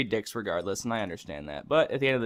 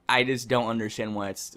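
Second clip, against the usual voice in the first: ordinary talk, nothing marked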